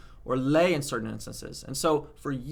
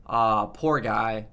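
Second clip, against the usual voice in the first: slow, lower "Ah, poor guy" with pity; pitying sigh; 4 semitones lower, much slower than usual. Shown as a demonstration. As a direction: sigh it out with sympathy.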